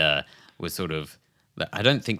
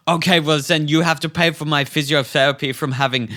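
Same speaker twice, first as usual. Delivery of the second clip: retold flip-out; 5 semitones higher, 6 dB louder than usual. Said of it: "she was flipping out".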